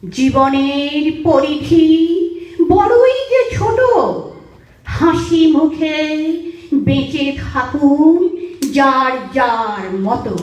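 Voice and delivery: slow, lilting verse with drawn-out line endings; poem recitation. Real, not acted. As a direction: recite in a measured singsong, pausing after each phrase.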